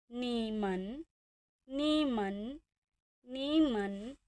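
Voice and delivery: नीमन with a dipping third tone. Shown as a demonstration. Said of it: "इस पर भी आ रही है थर्ड टोन". (तीसरी टोन में नीमन)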